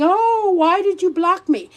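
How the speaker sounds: mocking a whiny blocked follower; hammed-up whining plea; mock whine. Mimicking a blocked follower whining to be unblocked, mock whine. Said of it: "come around whining".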